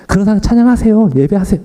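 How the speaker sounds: hammed-up preacher exhortation; mock pulpit preaching. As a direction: imitate his own confident sermon voice. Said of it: "저는 설교 때는".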